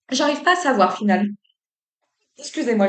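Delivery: coughing through the words, caught off guard; words squeezed out while choking; choking on a drink. Real, not acted. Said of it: "je m'étouffe". (s'étouffe en buvant)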